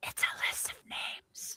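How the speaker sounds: very soft, hushed, put-on whisper. Voicing a character who peeks at a list and whispers: whispering in character. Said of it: "take a peek at it and then whisper to him".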